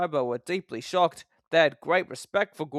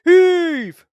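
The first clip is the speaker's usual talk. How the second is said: very high, loud call; called heave; 13 semitones higher, 14 dB louder than usual. A narrator's reading. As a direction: haul together now. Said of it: "called the Fat Controller".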